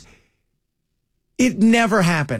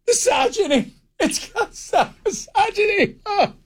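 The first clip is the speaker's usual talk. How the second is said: much higher, slow, whining mock lament; mocking whiny victim; 13 semitones higher, slower than usual. Mocking the victim-vampire woman, high and whiny. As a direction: ham up a self-pitying wail of grievance. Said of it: "She's like".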